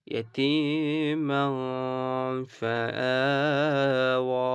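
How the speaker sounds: ইয়াতীমা ফাআওয়া sung out slowly like Quran recitation; slow recitation demo. Shown as a demonstration. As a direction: draw each vowel out in tajweed style. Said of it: "এইভাবে করে". (ধীরে তেলাওয়াতের সুরে পড়া)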